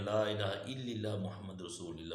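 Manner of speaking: mock-wrong "لا الہ الا اللہ" with "i" sounds replacing "a"; mispronounced kalima. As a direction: rattle off "لا الہ الا اللہ" carelessly, saying "illilla" for الا اللہ. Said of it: "بہت سے لوگ ایسے پڑھتے ہیں".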